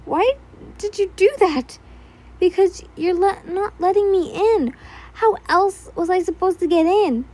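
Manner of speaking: heated argument. A narrator's reading. Break-in argument, both characters.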